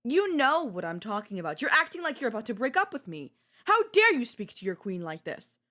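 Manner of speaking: affronted spoiled-queen outburst; indignant. Acted. Queen scolding partner for speaking like that, indignant. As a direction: raise it in offended protest.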